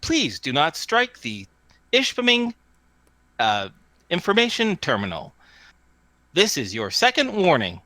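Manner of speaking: lightly voiced automated warning, measured and precise; terminal warning. Terminal warning dog boy after a smack, automated voice. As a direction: recite a polite machine warning. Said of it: "coming from the terminal".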